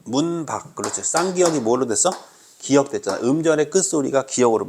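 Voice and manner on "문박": 문박 pronounced slowly with a held first syllable. Shown as a demonstration. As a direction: sound out 문박 for the class. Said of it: "이거 발음해봐, 시작". (문박을 또박또박 발음하는 시범)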